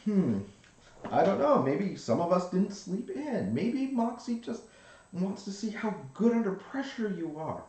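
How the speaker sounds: high, loud and hurried bandmate; excited bandmate voice. Retold or imitated. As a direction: push it out high and urgent. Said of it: "She's like".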